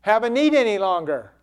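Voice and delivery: loud, high declaration of faith; triumphant cry, easing toward the end; bold declaration. Acted. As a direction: proclaim it, leaning hard on the first words. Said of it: "He was saying".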